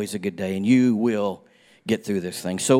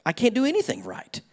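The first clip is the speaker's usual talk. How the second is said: despairing voice; 2 semitones higher than usual. Retold or imitated. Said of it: "you just feel like".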